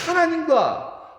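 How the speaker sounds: high, loud, stretched 하나님과; 하나님과 rung out high and long; emphatic. Acted. Climactic preaching.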